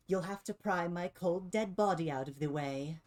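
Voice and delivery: a measured, mildly menacing threat; defiant threat. Acted. Game master as Triff refusing to let them pass, defiant. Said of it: "and she says".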